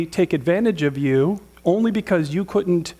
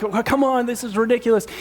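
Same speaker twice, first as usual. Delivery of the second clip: exasperated complaint; 4 semitones higher than usual. Retold or imitated. Voices the complaining congregation.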